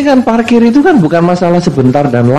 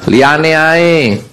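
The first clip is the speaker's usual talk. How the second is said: grumbling Jogja dismissal. Retold or imitated. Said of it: "Kalau ada orang ngemis pagi".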